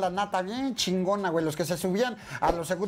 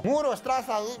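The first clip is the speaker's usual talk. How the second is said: wolf call; 5 semitones higher than usual. Pretend. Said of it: "es como el lobo".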